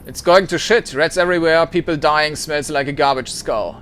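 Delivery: put-on old squatter grumbling about the ship; grunting complaint. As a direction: grunt it out in disgust. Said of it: "he grunts".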